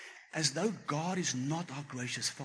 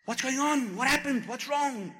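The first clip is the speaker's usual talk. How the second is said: high, loud startled questions; wife panicking at her crying husband, high and alarmed; 10 semitones higher, 5 dB louder, slower than usual. Retold or imitated. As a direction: burst out in worried alarm, much higher. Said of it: "my wife sees me and she's like".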